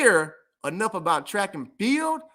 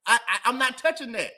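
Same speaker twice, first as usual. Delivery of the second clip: laughing refusal. Real, not acted.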